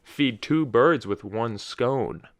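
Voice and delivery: very slow, "two" given extra weight; stress on two. Shown as a demonstration. Host quotes the suggested replacement saying, stress on "two". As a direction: drag the saying out and emphasize "two". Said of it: "I put the emphasis on two".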